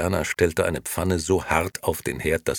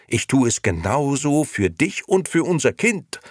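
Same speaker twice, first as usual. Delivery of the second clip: loud, high, heated tirade; shouting; 8 semitones higher, 6 dB louder than usual. A narrator's reading. Nino pleads his ambitions to his wife, shouting. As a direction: argue at full voice. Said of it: "schrie Nino".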